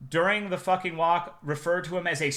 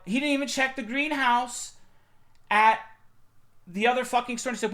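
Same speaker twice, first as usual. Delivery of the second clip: ordinary talk, nothing marked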